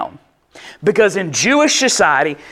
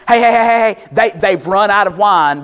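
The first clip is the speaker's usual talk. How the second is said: urgent. Retold or imitated. Mary urging Jesus that the wine has run out, urgent and pressing. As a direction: press him hard, this needs fixing now. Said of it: "No, it's".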